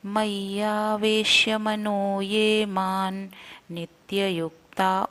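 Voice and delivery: shloka recitation. Shown as a demonstration. Teacher chanting the second verse for students. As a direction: intone the verse slowly and evenly. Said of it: "दूसरा श्लोक हम देखेंगे".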